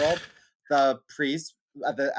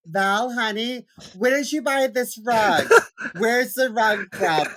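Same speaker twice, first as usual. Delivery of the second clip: higher, slow, with laughing cries; laughing through it; 8 semitones higher, 5 dB louder, slower than usual. Retold or imitated. Grandma asking mom Val about the rug, laughing through it. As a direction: fight off the giggles while quoting grandma.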